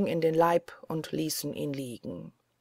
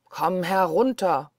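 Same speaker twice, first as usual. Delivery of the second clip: Blaubart calling; 5 dB louder than usual. Acted. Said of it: "rufte Blaubart noch einmal".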